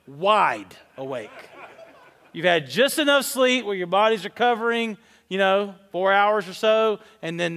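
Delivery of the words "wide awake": laughing drawl. Real, not acted. Laughing at the 3 A.M. fight.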